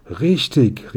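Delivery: lightly called out, pitch lifted; exclaiming. A narrator's reading. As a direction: exclaim it as memory suddenly returns. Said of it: "rief der Herr".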